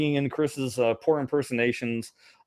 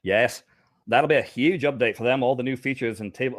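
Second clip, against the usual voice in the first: faux Australian accent. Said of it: "faux Australian accent".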